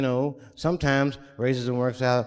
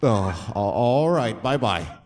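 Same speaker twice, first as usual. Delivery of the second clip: low, thrown-off white lawyer voice; awkward lawyer goodbye; 6 semitones lower, slower than usual. Retold or imitated. Lawyer thrown by his slang, low and awkward goodbye. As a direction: stammer out a confused goodbye. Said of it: "And they'll be like".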